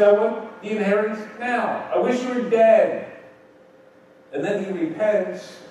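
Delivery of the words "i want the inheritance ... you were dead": demanding son. Retold or imitated. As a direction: snap it out like a greedy son. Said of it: "And he said".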